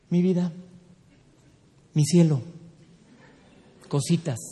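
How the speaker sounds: pet names, each set apart; without shouting. Shown as a demonstration. Wife soothing a shouting husband, without shouting. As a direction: coax with spaced-out endearments. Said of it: "sin gritar".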